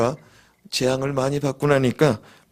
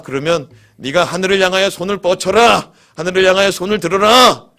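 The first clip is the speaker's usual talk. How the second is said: loud, high ringing command; God commanding Moses; 4 semitones higher, 5 dB louder than usual. Retold or imitated. God commanding Moses to raise his hand, booming. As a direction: call it down like a divine order. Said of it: "모세야".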